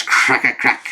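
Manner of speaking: little imitated blast cracks, one after another; crack sound effect. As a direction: pop out each crack like a comic sound effect. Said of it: "I love her, like, sound effects".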